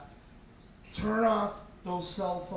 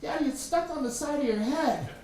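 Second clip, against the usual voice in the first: high, lightly voiced small boy; toddler voice; 7 semitones higher than usual. Little brother telling Daddy his find, toddler voice. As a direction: sound like a two-year-old. Two-year-old brother speaks.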